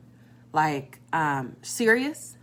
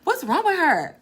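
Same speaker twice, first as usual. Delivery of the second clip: higher, laughing complaint; laughing mock gripe; 10 semitones higher, 4 dB louder than usual. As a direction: giggle it out in disbelief. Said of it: "you like".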